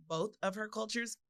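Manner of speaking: talking around a retainer; words slurred by a retainer; wearing a retainer. Real, not acted. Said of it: "I have my retainers in".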